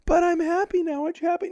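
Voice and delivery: high, bright, innocent sing-song; sweet mock B'Elanna. Host mocks B'Elanna asking grumpy crew if they're happy. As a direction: sound sugary and oblivious. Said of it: "She's like".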